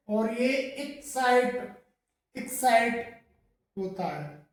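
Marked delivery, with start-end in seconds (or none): 0.6-3.2 एक्साइट as "ik-sait"; एक्साइट with an "i" at the start; correct pronunciation. Shown as a demonstration. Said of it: "सही जो pronunciation है". (सही उच्चारण: एक्साइट)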